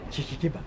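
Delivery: mock stammer on ke- before kebab; lightly mimicked stammer; imitating a stutter. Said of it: "Bégayez".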